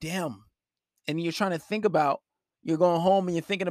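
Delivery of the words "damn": mock dawning worry. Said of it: "You're like".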